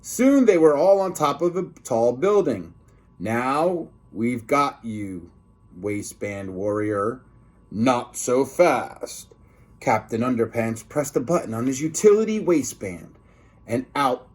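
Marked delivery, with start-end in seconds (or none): 3.2-9.3 villain taunt. Acted. Zombie lunch ladies cornering Captain Underpants, slow low taunt. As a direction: drag it out like a gloating villain.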